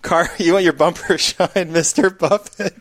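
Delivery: put-on high, giggly shoeshine kid; wholesome 1950s kid. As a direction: offer a shine like a fifties kid. Shoeshine boy bit.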